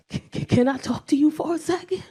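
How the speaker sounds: nervous stammer. Retold or imitated. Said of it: "He's shaking".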